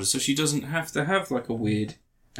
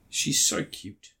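breathy whisper; 6 dB quieter, much slower than usual. Real, not acted. Swooning over an actress.

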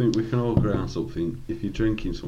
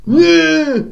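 high, loud battle cry; sword-swing yell; Aragorn battle yell; 9 dB louder than usual. Acted. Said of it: "Can you do a good Aragorn noise?".

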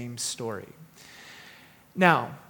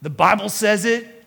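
put-on loud, drawn-out Texas accent; amateur Texas drawl, declaring it firmly; 3 semitones higher, 4 dB louder, slower than usual. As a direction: imitate an emphatic Texan churchgoer. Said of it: "I'm doing the accent now".

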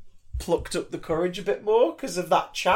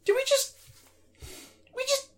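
stunned disbelief; 11 dB louder than usual. Retold or imitated. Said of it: "I'm just like".

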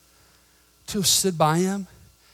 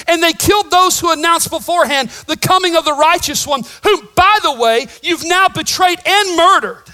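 fierce rebuke; 10 semitones higher, 10 dB louder than usual. Acted. Stephen rebuking the Sanhedrin, loud accusing shout. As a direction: hurl the charge at them.

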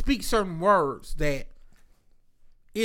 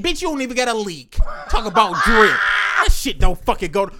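louder mocking yell at nephew; retold shout; 5 dB louder than usual. Uncle retelling roasting his nephew's outfit, mock shout. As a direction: bark it at him, laughing scorn. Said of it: "I said".

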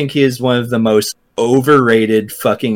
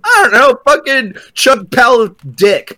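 high laughing mockery; 7 semitones higher than usual. Real, not acted. Mocking the name spelling.

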